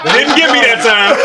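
loud and high through laughter; gloating laugh at a friend. Real, not acted. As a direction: crow it out, laughing hard. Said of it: "Got him!".

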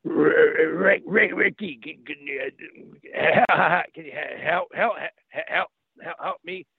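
imitating a friend struggling for words, stumbling and repeating; halting stroke-survivor speech. Friend after a stroke calling Rick for help, halting imitation. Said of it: "the conversation would go like this".

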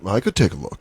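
low, soft clinical voice; put-on medical professional, low and quiet. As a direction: offer it like a discreet doctor. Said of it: "medical tone when she said that".

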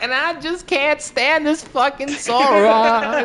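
laughing through a broken auto-tune robot; robot auto-tune imitation. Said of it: "your auto-tune is like".

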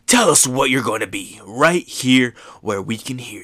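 whispered villain taunt. Retold or imitated. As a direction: breathe the mockery in a whisper. Kaido taunting Luffy.

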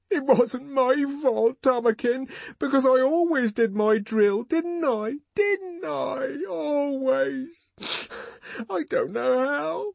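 very high, tearful pleading; sobbing. A narrator's reading. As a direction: plead your innocence through sobs.

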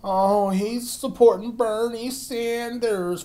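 high, slow, whiny mock voice; high mocking whine; mocking whiny critics. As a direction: drag it out like a crybaby complaint. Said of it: "Dumbasses fucking decide to start crying about it".

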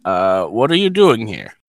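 lightly voiced old priest, slow; a hint of a frail elderly man. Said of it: "he's a very old man".

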